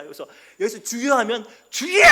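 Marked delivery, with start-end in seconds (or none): 0.8-1.1 higher, loud cry of Lord; prayer-retreat worshipper crying out. Retold or imitated. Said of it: "소리 지르는 분들". 1.7-2.0 very high, very loud cry of Lord, topping the last; even louder prayer cry. Retold or imitated. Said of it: "소리 지르는 분들".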